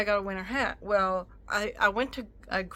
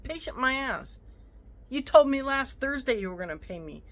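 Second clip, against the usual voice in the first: angry retort. Retold or imitated. Quoting her own retort.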